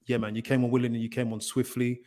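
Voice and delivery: munch pear between words. Real, not acted. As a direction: mouth full of pear while talking. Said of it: "whilst I munch this in the background".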